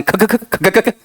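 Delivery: rapid repeated throaty "khak"; mimicked rattling noise. Teacher teasing about going on all day, imitated rattle. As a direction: sputter like a generator that won't stop. Mimics nonstop noisy chatter.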